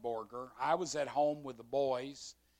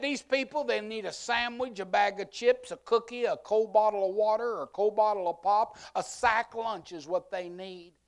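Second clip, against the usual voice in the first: higher, louder itemized list; commander listing lunch; 7 semitones higher, 7 dB louder than usual. Retold or imitated. Commander listing what people need, loud and high. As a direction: count off the items loudly.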